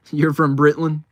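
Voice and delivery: said through a real laugh. Real, not acted. Streamer repeats a viewer's line back, laughing.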